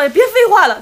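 imitating a friend snapping back in embarrassment; irritated snap. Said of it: "他就恼羞成怒".

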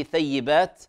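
"ثيبات" with a lisped th at the start; correct tha sound. Shown as a demonstration. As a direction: start "ثيبات" tongue between teeth, as th. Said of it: "في قوله".

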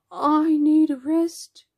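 loud, high, dragged-out complaint; whining tired boy. A narrator's reading. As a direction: whine it slowly as an exhausted child. Jack voiced, worn out, complaining.

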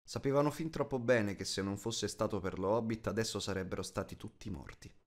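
usual speaking voice

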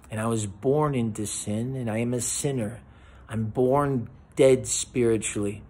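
soft, earnest prayer led for the listener; gentle sincere prayer voice, slightly hushed; spoken prayer. Acted. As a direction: pray it quietly, word by word, as if kneeling beside them. Leads a sinner's prayer.

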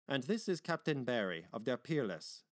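lightly voiced host making introductions; Mister Meyer, genial host. Meyer introducing the captain to the company, genial. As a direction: introduce the captain with lively emphasis.

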